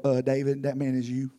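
a touch of a low, solemn Nathan; low, grave prophet. Acted. Nathan confronting King David, low and grave. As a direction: drop the voice and deliver the verdict gently.

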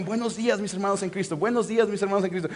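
memorising a line before going on; practising by rote. Acted. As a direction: run the phrase over to yourself. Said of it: "he was practicing all the time".

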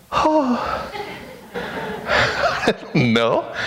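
breaks into a high laugh; laughing at her own impression; real amused laugh, trailing off. Real, not acted.

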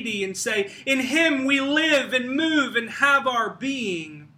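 forceful preaching. Real, not acted. Preacher declaring God the only source of life, forceful. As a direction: drive the declaration home.

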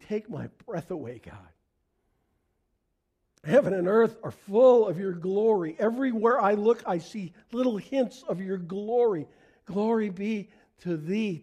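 earnest spoken prayer to God. Acted. Pastor praying to God before the congregation, devout prayer voice.

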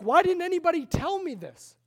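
a king demanding answers, a touch of anger; upset king. Retold or imitated. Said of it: "He's, he's mad".

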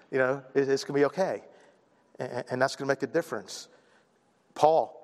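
ordinary talk, nothing marked

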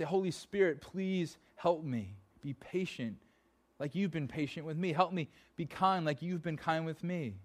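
earnest prayer. Retold or imitated. Preacher acts out a prayer.

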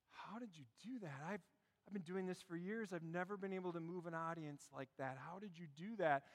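humbled actor. Acted. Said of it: "the actor turns to the young guy and he says".

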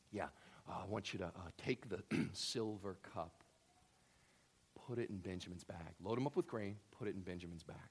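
soft, hushed and conspiratorial; secretive instruction. Retold or imitated. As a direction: lean in and plot quietly. Joseph gives secret instruction.

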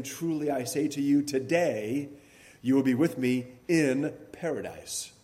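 today set apart on its own, with a small rise and a pause after it; stress on today. Shown as a demonstration. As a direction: lean on today and let it stand alone. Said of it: "the emphasis here is on the word today".

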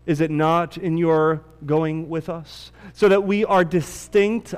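measured, solemn Bible reading, slowing at the pleas; scripture reading. Acted. Pastor reads scripture to the church, solemn and measured. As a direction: read the passage to the congregation with gravity. Reads the Exodus passage aloud.

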